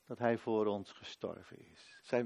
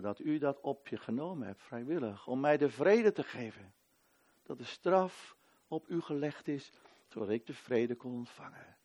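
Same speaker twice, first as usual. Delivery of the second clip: prayer. Acted. Leads a prayer.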